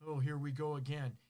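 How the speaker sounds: mock pouty complaint, dragged out; sulky groan. Partner turned down for sex, sulking in mild mock. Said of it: "Do you pout?".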